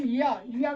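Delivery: या, या stretched slowly, the tongue rising toward the palate; slow या demonstration. Shown as a demonstration. Teacher slowly demonstrating या for the class. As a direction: drag out या, या slowly. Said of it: "या बोलेंगे".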